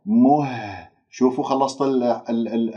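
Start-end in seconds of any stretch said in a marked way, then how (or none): 0.1-0.9 مه held with resonance in the throat; vibrating ha. Shown as a demonstration. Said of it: "يجب أن تحس بالاهتزاز".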